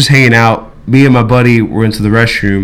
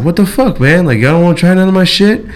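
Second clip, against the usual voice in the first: higher-pitched imitation of an annoyed dealer; retold mild anger; 6 semitones higher than usual. Storyteller imitates a dealer angry at refused sale, mildly indignant. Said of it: "he got a little bit angry".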